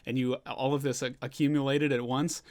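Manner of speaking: startled disbelief, starting high; lightly acted panic over the news; mock freaking out. Kinemon reacting to Raizo's report in mild disbelief. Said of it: "Kinemon's kind of freaking out".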